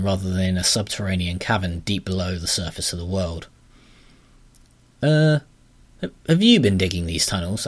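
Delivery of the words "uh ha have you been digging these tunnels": put-on demanding young heroine. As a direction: confront the creature with a raised voice. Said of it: "Astrid demanded".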